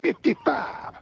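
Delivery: mock yell. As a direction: imitate calling out a number hopefully. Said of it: "He yells out".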